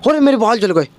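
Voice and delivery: a mock scared cry with the lisp gone; a hint of panic over burnt hair; shocked cry. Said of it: "एकदम सही हो गई".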